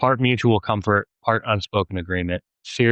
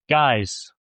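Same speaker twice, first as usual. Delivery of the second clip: raised voice; 5 semitones higher than usual. Acted. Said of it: "Liz's voice rose".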